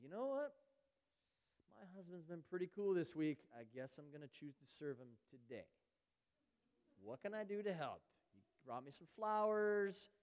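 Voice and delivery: lightly hammed-up wife doing her husband a grudging favour; mock transactional wife. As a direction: ham up a wife keeping score, slowing on the flowers. Mock self-centred wife bargaining.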